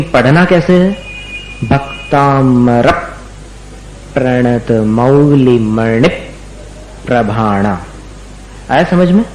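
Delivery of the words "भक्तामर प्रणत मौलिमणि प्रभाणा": slow Sanskrit chant with stressed syllables; slow, deliberate Sanskrit verse recitation; slow recitation demo. Shown as a demonstration. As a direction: lean on the syllable before the cluster in भक्तामर. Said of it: "उसको जोर दे करके पढ़ना पड़ता है".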